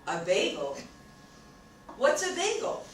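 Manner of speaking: puzzled, loud rising question; baffled friend. Retold or imitated. Texan friend hearing of bagels for the first time, baffled. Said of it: "he looked at me and he said".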